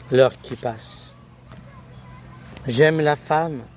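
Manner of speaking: measured poetic recitation in short, paused phrases; poem recital. Acted. Poet reciting the announced recital on love and woman, declaimed poem. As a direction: recite it line by line, lifting the openings.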